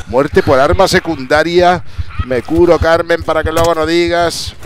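high, loud triumphant call. Real, not acted. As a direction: crow over the kill at full voice. Crows after kill in game.

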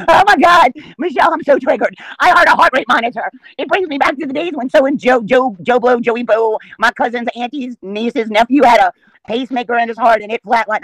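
high, whiny mock of an offended viewer; mocking triggered viewer. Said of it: "The clip, I'm like".

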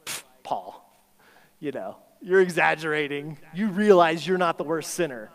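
imitated dismissive objection; scoffing disbelief. Preacher recalls his first reaction to Paul's claim, scoffing disbelief. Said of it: "I think mine was like".

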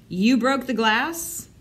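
a dad demanding an answer, clearly annoyed; father catching his son after the broken window; ticked off. A narrator's reading. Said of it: "Their father sounded ticked off".

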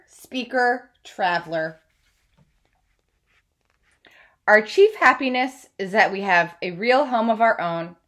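steady read-aloud storytelling voice; story narration. Acted. Teacher reads biography aloud.

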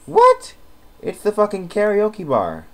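loud, high outrage at the karaoke bar; outraged shout. Real, not acted. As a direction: explode in disbelief and drag out the rest. Outraged at a sim's complaint.

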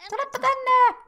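high, bright call to a dog; high pet call. Real, not acted. Player calling her pet dog over, high call. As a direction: sing it out to bring the puppy over.

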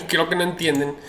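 said through a laugh; amused, laughing at the buyers. Real, not acted. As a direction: chuckle while repeating it.

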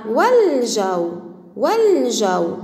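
slow والجو with wa joined to a held l; hamza dropped. Shown as a demonstration. Teacher demonstrating connecting hamza mid-speech, hamza dropped. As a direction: glide through والجو as "wal-jaw", no glottal stop. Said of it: "ولا تنطق في وسطه".

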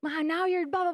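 high, whiny voice of someone playing the victim; mock the self-pitying complainer; a hammed-up childish victim voice; mocking whiner. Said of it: "They're like".

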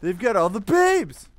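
put-on frat boy voice. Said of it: "Why do you sound like a frat boy?".

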